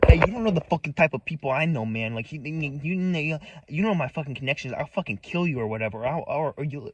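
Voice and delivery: half-hearted Boston hoodlum impression; hoodlum Boston accent. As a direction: imitate a threatening hoodlum, lightly put-on Boston accent. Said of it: "brought out her fucking hoodlum accent".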